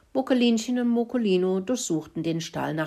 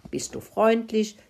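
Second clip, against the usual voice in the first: higher, light friendly lilt; 6 semitones higher than usual. A narrator's reading. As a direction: lift the voice kindly on "freundlich". Mouse contrasts friendly with cross. (freundlich, mit heller angehobener Stimme)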